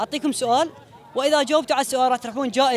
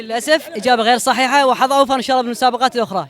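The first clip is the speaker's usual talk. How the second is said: loud announcement; 6 dB louder than usual. Real, not acted. Host announces wrong answer.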